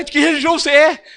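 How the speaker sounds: high, loud, exasperated shouting; agitated outburst. Retold or imitated. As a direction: imitate a salesman losing his temper. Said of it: "Aí o cara ficou nervoso".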